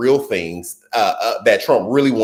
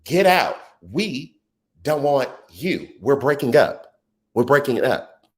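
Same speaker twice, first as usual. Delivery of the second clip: much higher, sassy brush-off; voters dismissing Trump; 4 semitones higher, slower than usual. Acted. Voters telling Trump to leave, sassy breakup tone. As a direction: shoo him out like a breakup. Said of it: "And we said".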